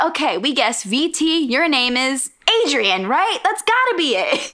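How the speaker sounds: a hint of an eager guesser, pitch rising to the end; old gamblers. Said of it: "and they're like".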